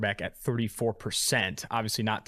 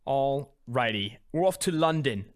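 put-on London accent; slower than usual. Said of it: "That's better than mine".

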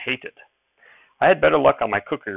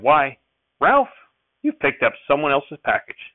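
a surprised cry on Ralph, pitched up high; surprised mother; 5 semitones higher, 5 dB louder than usual. Acted. Mother surprised at meat in the package, voiced with a surprised high cry. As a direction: catch her breath at the beef. Mother finds good beef.

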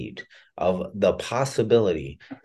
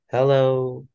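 put-on gentle hello as if to a child; soft bedside voice; 5 semitones higher, 4 dB louder than usual. Shown as a demonstration. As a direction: disarm them with a soft greeting. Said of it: "I usually say it in a very, uh, soft, gentle voice".

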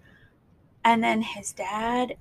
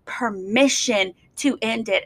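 retold scream. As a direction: bark it like a furious father, half-hearted. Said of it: "He's screaming".

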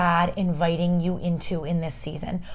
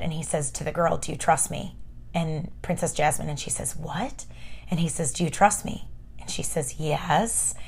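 very soft, low retelling; quiet, intimate movie-scene dialogue; hushed storytelling; 5 semitones lower, 10 dB quieter than usual. Retold or imitated. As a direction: drop to a near-whisper for a tender exchange. Retelling Aladdin's tender exchange with Jasmine.

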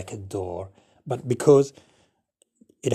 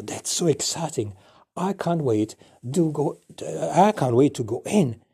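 excited really; 3 dB louder than usual. Acted. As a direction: gush with eagerness about the trip. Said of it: "Now remember, I said".

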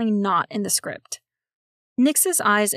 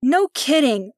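piped in; 4 semitones higher, 5 dB louder, slower than usual. Acted. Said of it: "piped in".

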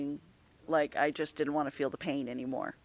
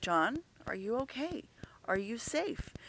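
panicked whisper; 6 semitones higher, 6 dB quieter than usual. Retold or imitated. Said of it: "And I'm panicking".

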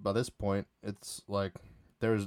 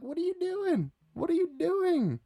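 very high, strained squeal; squeaky panic. Retold or imitated. Caught in a friend's headlock, squeaky high protest. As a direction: shriek it like you're stuck in a headlock. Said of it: "I was like".

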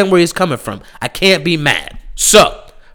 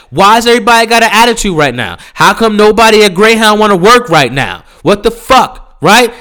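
fed-up rant, slightly raised; indignant rant; 3 semitones higher than usual. Real, not acted. Ranting complaint.

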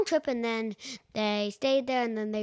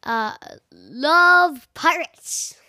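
whisper; 2 semitones higher, 6 dB louder, much slower than usual. A narrator's reading. Whisper in bedtime story.

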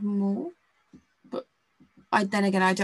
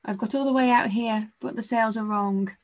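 dramatic damsel; 2 semitones higher than usual. Pretend. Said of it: "really dramatic pose of".

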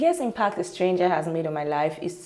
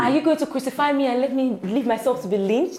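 higher-pitched dramatic protest; movie-style melodrama; 5 semitones higher than usual. Real, not acted. Guest protesting the host's accusation, melodramatic. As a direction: plead as if in a movie. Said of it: "Wow, this is not a movie".

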